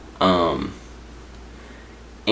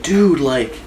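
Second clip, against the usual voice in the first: higher-pitched imitated griping; mild mock complaint; 7 semitones higher than usual. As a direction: act out a roomful of fed-up sleepers. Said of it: "and everybody was like".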